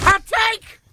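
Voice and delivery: loud, high segment call; announcer shout. Acted. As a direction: call it out like a game show host.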